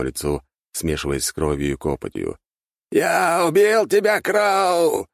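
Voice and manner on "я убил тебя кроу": very high, louder, slow yell; triumphant shout. A narrator's reading. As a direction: scream your victory. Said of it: "кричал он".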